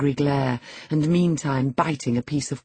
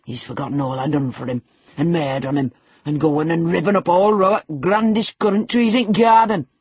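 aggrieved wail climbing higher and louder; rising, indignant lamenting in dialect; 3 semitones higher, 6 dB louder than usual. A narrator's reading. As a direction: build from a quick grumble to a loud lament. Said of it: "here he lamented outright".

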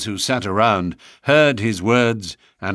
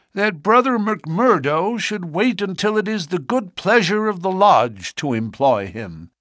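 put-on old greybeard voice; 10 semitones higher than usual. A narrator's reading. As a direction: speak as a stiff old greybeard.

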